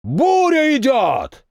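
slow, high roar of a crowd; the crowd thundering the answer a second time; thundering reply. A narrator's reading. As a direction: let it thunder back. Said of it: "прогремело во второй раз".

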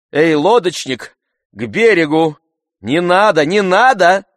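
loud ringing command to the boatman; calling out orders. A narrator's reading. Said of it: "приказывала она лодочнику".

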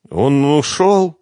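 plain reading voice

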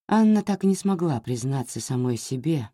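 usual speaking voice

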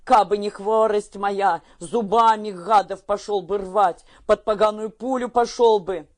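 a sick father furious he can't fight; angry old man. A narrator's reading.

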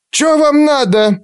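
high, slow, piercing crone voice; shrill old woman. Acted. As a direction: screech like a parrot. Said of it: "требовательно спросила она резким свистящим голосом".

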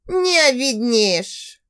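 slow, venomous hiss from a rival woman. A narrator's reading. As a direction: hiss it out with poison, slowly. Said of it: "ядовито прошипела Катька". (ядовито прошипеть, медленно)

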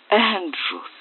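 high-pitched calling of a name; exclaiming. A narrator's reading. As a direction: call out to rouse an unconscious brother. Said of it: "восклицал он". (взволнованный возглас)

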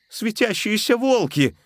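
high, slow scared cry; испуганно; frightened. A narrator's reading. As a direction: gasp in fear. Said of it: "испугался Джованни".

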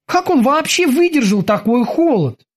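high-pitched wondering voice; cautious boatswain. A narrator's reading. Kiki wonders at the prisoner's endurance, cautious boatswain. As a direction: marvel carefully, keeping the voice high. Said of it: "осторожно предложил Кики".

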